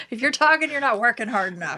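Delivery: a hint of a shouty PE teacher; imitating an old gym coach; mock gym coach. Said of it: "what our gym coaches used to say".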